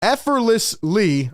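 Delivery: tongue-tied with excitement. Real, not acted. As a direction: trip over "effortlessly" and keep retrying, slowing on the last go. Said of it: "I'm sorry, I can't even talk".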